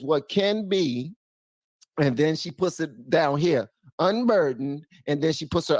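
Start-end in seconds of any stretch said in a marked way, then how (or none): 0.0-1.1 slow, drawn-out imitation of a grand slogan; he mimics her speech to the viewers, slowly and grandly; mock Harris slogan. Mock-solemn slow slogan. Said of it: "she lifts up her, her right arm and she says".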